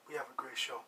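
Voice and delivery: low, soft and weighty; quietly underlined promise; hushed sincere emphasis. Shown as a demonstration. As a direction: drop the voice low and soft to mean it. Tonight's claim set against usual.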